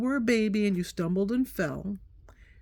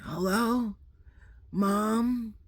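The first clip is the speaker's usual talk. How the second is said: sleepy daughter; much slower than usual. Retold or imitated.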